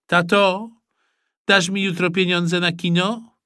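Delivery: Mikołaj asks dad for cinema money, high and coaxing; pleading boy. Acted. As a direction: wheedle dad sweetly.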